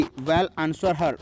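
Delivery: ordinary talk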